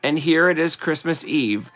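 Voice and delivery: slow, sing-song verse reading; slow Christmas card recital; poem reading. Acted. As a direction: read it like a greeting card poem, unhurried. Reads Christmas poem aloud.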